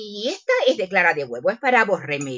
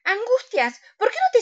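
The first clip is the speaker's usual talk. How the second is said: calling out; 13 semitones higher than usual. Acted. Calling her friend across room.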